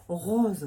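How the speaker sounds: "Rose" with a clear demonstrated R and falling tune; Toulouse pronunciation. Shown as a demonstration. Showing listeners the R, Toulouse pronunciation. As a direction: show off the R of "Rose" in a Toulouse accent. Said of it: "c'est toujours au niveau du R".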